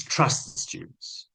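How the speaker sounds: slow soft whisper; repeating advice to trainees, slow whisper. Shown as a demonstration. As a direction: hush it slowly to let it sink in.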